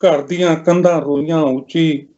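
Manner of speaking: measured lament in verse, pausing between lines; mournful poem recitation. Acted. Poet telling of a mother's lonely funeral, mournful recitation.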